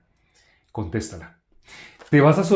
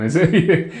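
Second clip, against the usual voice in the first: laughing through a word; 4 semitones higher, 4 dB louder than usual. Real, not acted. Preacher laughing at the obvious point. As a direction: chuckle breaking into the word evidente.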